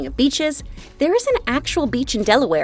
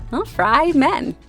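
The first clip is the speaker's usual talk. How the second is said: slow pun; much slower than usual. Real, not acted. Pun delivered with a pause.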